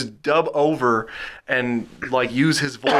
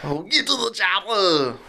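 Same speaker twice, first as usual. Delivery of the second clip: lightly voiced Arnold growl; a hint of an Austrian action hero; Arnold impression; 3 semitones higher than usual. A friend doing a quick Arnold line. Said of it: "I can do Arnold a little bit".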